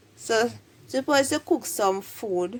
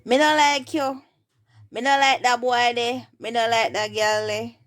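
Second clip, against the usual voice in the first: higher, firm Jamaican Patois demo; 4 semitones higher, 4 dB louder than usual. Shown as a demonstration. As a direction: project the Patois dislike for learners. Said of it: "they say it in patois".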